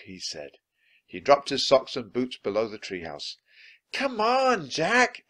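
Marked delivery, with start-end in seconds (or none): 3.9-5.2 high, urgent shout; loud, high-pitched calling. A narrator's reading. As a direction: shout to hurry a friend along. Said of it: "Annie shouted".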